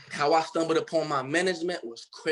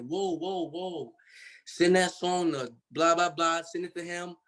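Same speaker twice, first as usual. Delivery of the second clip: mock stunned stop; 2 semitones higher, slower than usual. They stop him midway.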